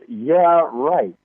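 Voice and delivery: dry "Yeah, right"; sarcastic inner voice. Retold or imitated. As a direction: scoff it like a disbelieving brain. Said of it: "your brain replies".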